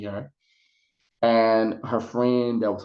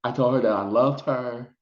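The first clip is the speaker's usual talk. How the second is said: holding back tears. Real, not acted. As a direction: voice catching, fighting real tears. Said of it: "I'm trying not to cry".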